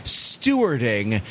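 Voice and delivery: over-the-top awards-night host gush; gushing red carpet chatter. Pretend. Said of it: "I can't keep it up".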